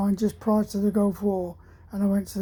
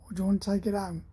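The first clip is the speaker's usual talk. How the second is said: put-on Cockney accent; much faster than usual. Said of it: "with a broad Cockney accent said".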